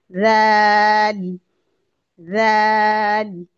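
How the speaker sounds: stretched, soft-toothed राल; soft zal. Shown as a demonstration. Teacher drills the soft letter for students, slow soft recitation. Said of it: "राल को नरमी से पढ़ेंगे".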